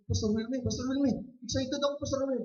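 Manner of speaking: high-pitched retold weepy plea; imitated tearful excitement. Pastor retelling a crying woman running after him, imitated tearful excitement. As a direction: mimic a crying woman calling her pastor. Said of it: "iyak siya".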